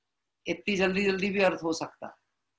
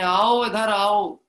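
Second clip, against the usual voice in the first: slow, louder call to come closer; 5 dB louder, much slower than usual. Retold or imitated. Preceptor calls worldly souls to come near, slow loud call. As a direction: draw them in with a drawn-out call. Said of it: "आचार्य देव कहते हैं".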